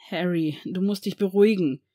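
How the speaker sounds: a touch of urgent pleading. Acted. Lucius pleads with the panicking boy, mild plea. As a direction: beg him gently to calm down. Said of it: "flehte der Malfoy".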